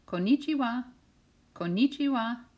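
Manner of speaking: high, loud called-out greeting. Acted. Missus Rosen greeting the children, calling high and loud. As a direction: call out a friendly shalom. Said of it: "say hello".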